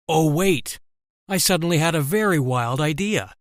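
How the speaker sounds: sly, gleeful villain exclaiming; evil smirk. Acted. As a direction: say it with a wicked grin. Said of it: "exclaimed with an evil smirk".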